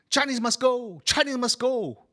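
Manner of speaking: high, loud chanted slogan; hostile slogan. Retold or imitated. Anti-Chinese posters read as a loud hostile chant. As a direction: chant it like an angry mob. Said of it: "Posters are coming up saying".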